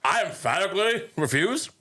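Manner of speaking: a badly faked presidential voice; terrible Obama. Mimicking a president's refutation, badly faked. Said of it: "This is a terrible Obama impression".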